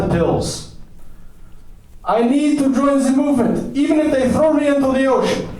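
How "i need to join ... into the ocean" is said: very high, impassioned declaration; high, fervent outburst; desperate insistence. Acted. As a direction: declare it like a zealot at fever pitch. American desperately insists on joining.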